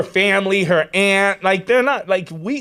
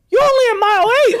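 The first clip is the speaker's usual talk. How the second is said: high, loud, rapid protest; retold disbelief; 6 dB louder, much faster than usual. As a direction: blurt it out in mock disbelief. Retold disbelief at tearful runner.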